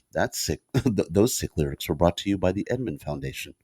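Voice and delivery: lightly mocked public-radio underwriting read; NPR host impression. Co-host mocking the lyric reading as a sponsor credit, mock NPR voice. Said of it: "You sounded like an N P R guy".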